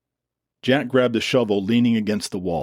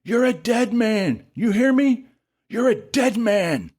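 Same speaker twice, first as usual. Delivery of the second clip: shaking with rage; 14 semitones higher than usual. A narrator's reading. Dylan threatens Jack, shaking with rage. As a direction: spit the threat out furiously. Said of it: "Dylan was shaking with rage".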